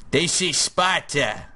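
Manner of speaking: put-on slow, half-hearted Greek accent; a badly faked movie Spartan line. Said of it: "How do you do a Greek accent anyway?".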